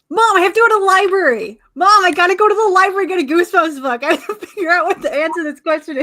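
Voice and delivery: put-on high, loud, excited child pleading; excited kid. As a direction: beg mom like an eager kid. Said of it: "be like".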